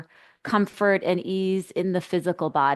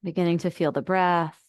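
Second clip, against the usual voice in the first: unhurried guide, with long pauses between phrases; settling meditation instructions, spaciously phrased; guided meditation. Acted. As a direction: ease listeners inward, leaving space after each phrase.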